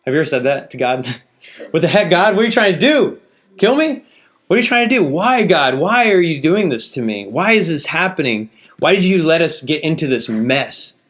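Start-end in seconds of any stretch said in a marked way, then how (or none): 1.7-2.3 loud, higher hammed-up yell at God; screaming at God. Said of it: "the opportunity to scream at God". 2.3-11.0 screaming at God. Retold or imitated. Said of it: "the opportunity to scream at God".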